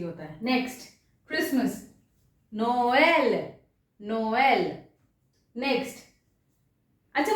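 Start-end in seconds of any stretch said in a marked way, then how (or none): 2.5-4.8 नोएल as no-EL, each vowel clear; both vowels sounded. Shown as a demonstration. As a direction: model नोएल in two syllables. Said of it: "दोनों pronounce होंगे".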